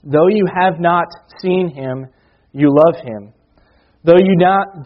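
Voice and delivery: measured, earnest Bible reading; scripture reading. Acted. Preacher reading Peter to his church, earnest reading voice. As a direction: read the verses aloud to the congregation. Reads scripture passage to congregation.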